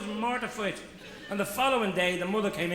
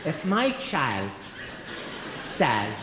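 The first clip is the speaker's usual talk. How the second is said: indignant mother; 5 semitones lower than usual. Acted. Mother defends her son.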